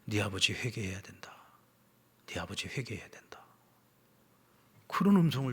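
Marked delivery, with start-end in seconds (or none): 0.0-3.4 low, hushed divine message, lightly voiced; quiet, lowered voice for God's words. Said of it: "하나님께서 음성을 들려주시는데".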